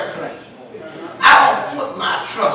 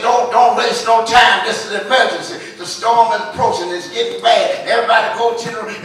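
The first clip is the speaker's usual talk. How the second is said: urgent warning; 4 dB louder, faster than usual. Retold or imitated. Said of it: "and said".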